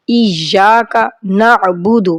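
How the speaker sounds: نعبد with a clear ain sound. Shown as a demonstration. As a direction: push the ain from the throat in نعبد. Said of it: "آئین کی آواز نکالنے کی practice کریں".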